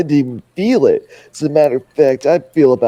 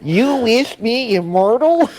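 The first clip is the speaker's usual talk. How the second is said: high, nasal, slow cartoon voice; 8 semitones higher, slower than usual. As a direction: squeeze it through the nose. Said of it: "what are they nasally? ... I'm sticking with it".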